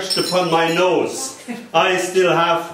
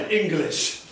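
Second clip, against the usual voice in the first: put-on Irish accent; 6 dB quieter than usual. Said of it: "in an Irish accent".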